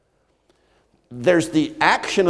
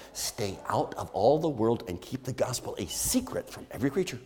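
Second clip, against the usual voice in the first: mock false quote; 7 dB quieter than usual. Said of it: "No, that's not what he said".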